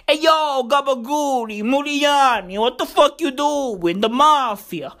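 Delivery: lightly put-on Italian-American mafia accent; mock mobster accent. Fans aping The Irishman afterwards, mock Italian-American mobster accent. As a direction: imitate a movie mobster's accent. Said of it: "They watch the fucking Irishman".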